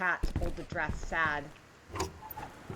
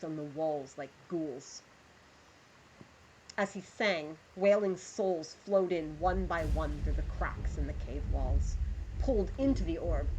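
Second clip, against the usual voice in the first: measured storyteller reading aloud; story narration; 2 semitones lower than usual. Acted. Streamer reads the pirate story to her chat, storyteller voice. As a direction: draw listeners into the tale.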